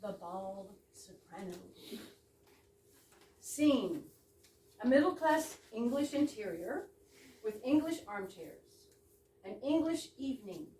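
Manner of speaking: mock-formal stage-direction read; a script read with playful weight on English. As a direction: announce the scene as in a script.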